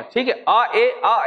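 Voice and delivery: अ and ए said as drawn-out separate teaching sounds; vowel pronunciation demo. Shown as a demonstration. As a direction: sound out अ then ए slowly for the class. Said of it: "ऐसे बोलेंगे तो ए होता है".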